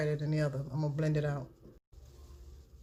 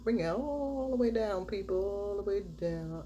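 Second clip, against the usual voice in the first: drawn-out instruction; 4 semitones higher, slower than usual. Real, not acted. Stretching words while demonstrating makeup.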